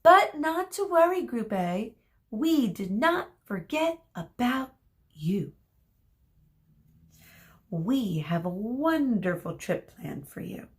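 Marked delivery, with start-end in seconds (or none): 0.0-5.5 mock consoling. A narrator's reading. Teacher consoling losing group.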